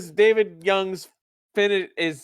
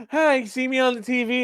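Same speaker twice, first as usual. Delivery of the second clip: higher-pitched imitation of a girlfriend; lightly voiced girl calling out to mom; excited girlfriend; 7 semitones higher than usual. Girlfriend waving to mom on camera, excited imitation. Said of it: "She's like".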